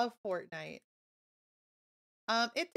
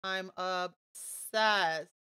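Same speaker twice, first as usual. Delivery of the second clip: drawn-out gush; 2 semitones lower, 4 dB louder, much slower than usual. Real, not acted. Gushing over the item.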